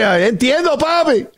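put-on high, playful Spanish accent. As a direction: say it with a Spanish flourish. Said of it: "Do a little Spanish for you".

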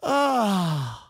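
drawn-out falling 'ah'; long sigh. Real, not acted. Host winding down after his rant, long sigh. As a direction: let out a long, voiced sigh.

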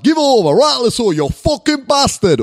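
loud, high mock Northern accent; scary Northern in-laws. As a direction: bellow it like rowdy Northern relatives. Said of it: "All of them, they're fucking scary".

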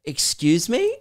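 drawn-out mock indignation; mock offended gasp. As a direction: imitate a girl taken aback. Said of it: "And she goes".

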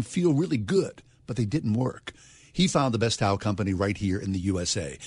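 upbeat radio ad read. Acted. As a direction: sell it like a live radio spot. Host reads a radio ad.

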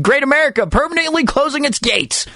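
high-pitched mock proclamation; mock announcement. Host parodying the park's closing notice, mock announcement. Voices a vague announcement, mocking.

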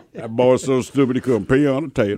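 lightly voiced old-timer; a hint of old man passing judgment. Host joking about an old man's saying, lightly voiced old man. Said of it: "that is definitely an old man saying".

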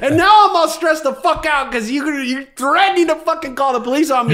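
yelling back at the therapist who threatened to call police, furious; retold furious yell. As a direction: blast it like you want to fight him. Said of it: "Dude, I was so mad at this fool".

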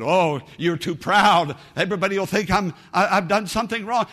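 lightly mocking proud voice; imitating a proud person.

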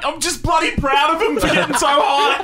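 laughing. Pretend. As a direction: crack up while you say it. Comic barbecue bit, laughing.

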